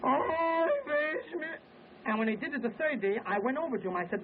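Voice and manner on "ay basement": louder mock wail. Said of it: "he repeated the same thing".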